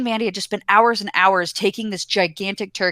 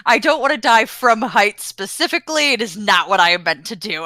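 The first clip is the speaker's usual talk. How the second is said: mock solemn quote. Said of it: "I just like your whole".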